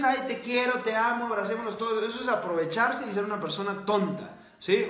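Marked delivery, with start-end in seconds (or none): 0.0-2.0 lightly voiced sugary gushing, higher and quicker; mock sappy gushing. Mocking a soppy manager gushing at his team, lightly. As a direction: make fun of a soppy hug-everyone boss. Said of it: "No es".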